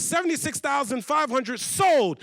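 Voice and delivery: big drawn-out closing call; auctioneer. Acted. Auctioneer closing the bidding, emphatic drawn-out call. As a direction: hammer down the sale like an auctioneer. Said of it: "The auctioneer's gotta keep the process going".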